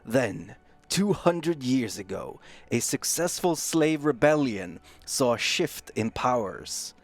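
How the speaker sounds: slow, dramatic trailer narration; lightly voiced epic trailer read; movie trailer voice. Shown as a demonstration. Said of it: "epically read the backstory".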